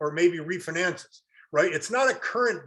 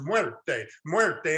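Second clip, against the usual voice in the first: Spanish muerte; 3 semitones lower than usual. Shown as a demonstration. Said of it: "Anybody speak Spanish".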